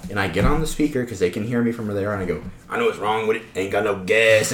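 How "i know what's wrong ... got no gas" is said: meme voice. Retold or imitated. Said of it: "that meme".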